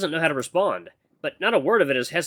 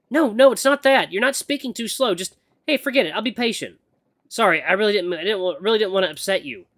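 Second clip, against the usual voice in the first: higher-pitched, flustered backpedalling; apologetic heroine; 7 semitones higher, 4 dB louder than usual. Acted. Acolyte afraid she upset her mentor, flustered and apologetic. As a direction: apologise in a raised, stumbling voice.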